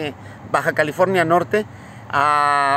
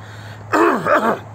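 throat clearing; 6 semitones higher than usual. Real, not acted. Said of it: "acá tengo el mosquito".

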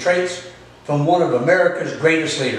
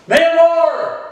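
high call, pushed a bit louder; louder repeated call for Mamacita; 11 semitones higher, 4 dB louder than usual. Real, not acted. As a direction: call her again, she didn't answer. Calling the wife again, louder.

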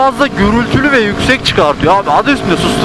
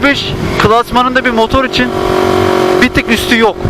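muffled, talking inside a helmet. Real, not acted. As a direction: voice boxed in by a motorcycle helmet. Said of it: "kaskın içinden ses nasıl çıkıyor". (kaskın içinden boğuk ses)

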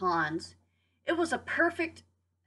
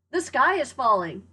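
louder, higher alarmed call; crying out; 3 semitones higher, 5 dB louder than usual. Acted. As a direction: call out the warning together. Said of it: "cried Henny Penny".

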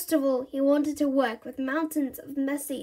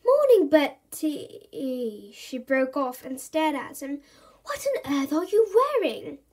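a mum startled by her son's outfit; surprised mum; 5 dB louder than usual. Acted. Mum sees Bertie's odd outfit, shocked.

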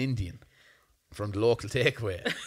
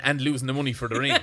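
laughing; 4 dB louder, faster than usual. Real, not acted. Joke about the ring money.

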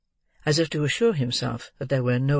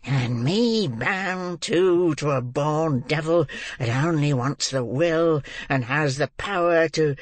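Fagin. A narrator's reading. Old man raging at the girl over lost money, mad with rage. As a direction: rant until breath runs out, stammering at the end. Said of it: "pursued Fagin, mad with rage".

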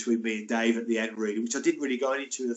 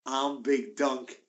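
slow, menacing mock-growl of an intimidating player; Big Donk's voice; slower than usual. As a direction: lean in and threaten slowly. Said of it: "He goes".

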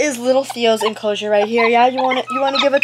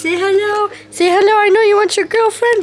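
high sing-song coaxing, a little louder; cooing pet talk; 6 semitones higher, 3 dB louder than usual. Real, not acted. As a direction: coax a pet to say hello. Coaxing the monkey to camera.

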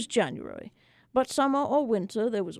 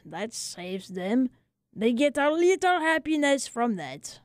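lightly voiced little French barber, weary; a hint of a tired old barber grumbling; 2 semitones higher than usual.

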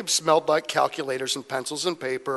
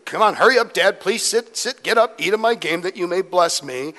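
pressing, a touch louder at first; hurrying; 3 semitones higher, 3 dB louder than usual. Retold or imitated. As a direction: lightly act out rushing dad along. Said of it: "in a bit of a hurry here".

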